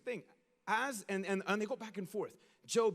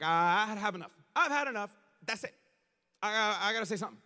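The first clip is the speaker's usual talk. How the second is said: louder, had enough; fed-up outburst; 5 dB louder than usual. Retold or imitated. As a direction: burst in after holding back. Elihu fed up speaking.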